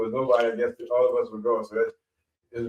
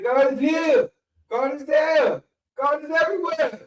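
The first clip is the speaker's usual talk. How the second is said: preaching; slower than usual. Retold or imitated. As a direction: intone it like the pastor. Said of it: "He said".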